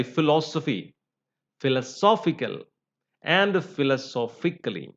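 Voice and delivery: "philosophy" on -LOS-, "philosophical" on -SOPH-, "philosophically" on -PHIC-; shifting stress. Shown as a demonstration. Teacher contrasting noun, adjective and adverb, shifting stress. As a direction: move the stress one syllable later from "philosophy" to "philosophically".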